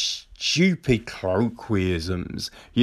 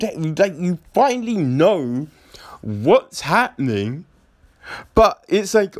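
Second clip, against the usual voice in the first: stammering disbelief, higher; can't believe these morons; incredulous mock; 4 semitones higher than usual. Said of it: "Be like".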